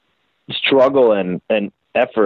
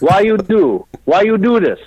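Dario impression; 7 semitones higher than usual. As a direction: throw the question up in mock outrage. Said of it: "Dario looks at me and goes".

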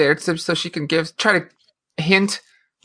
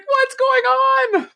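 much higher, astonished question; shocked disbelief. Retold or imitated. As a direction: ask as if the scene just blew your mind. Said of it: "I was like".

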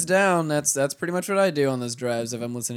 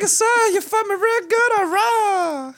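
very high, put-on Asian-accent lady; terrible Asian accent; 4 dB louder than usual. Joking about the lady and Frank, in a high mock Asian accent. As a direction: squeak it in a bad Asian accent. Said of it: "terrible, terrible Asian accent".

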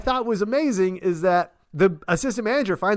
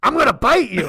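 retold dentures threat; 6 semitones higher, 6 dB louder than usual. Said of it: "and then goes".

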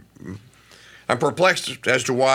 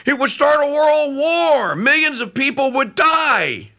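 higher, pleading quoted Putin; earnest Putin; 11 semitones higher than usual. Retold or imitated. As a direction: plead it as a peacemaker, pitched up. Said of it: "he says the most amazing thing".

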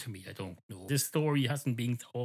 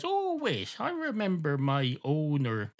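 sudden remembering; 5 semitones higher than usual. Acted. Dog suddenly remembers something.

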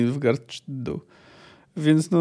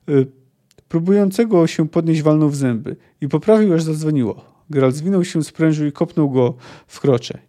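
measured audiobook narration; story narration. A narrator's reading. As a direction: read the battle scene as a storyteller. Reads the fight scene aloud. (narracja powieści)

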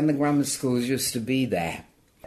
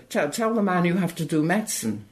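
higher, insistent mother's demand; mother insisting; 7 semitones higher than usual. Retold or imitated. Mother telling her daughter what to say to the official, insistent. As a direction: push the daughter to speak up for her. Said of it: "my mother".

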